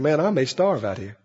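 low, quiet fretting thought; lightly voiced fear; mock worried Jacob. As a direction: mutter it like a lonely young man.

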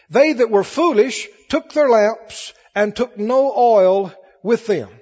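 slow, measured Bible reading; preacher's deliberate scripture-reading voice. Acted. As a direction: read the verse aloud slowly, stretching the key words. Reads Bible verses to congregation.

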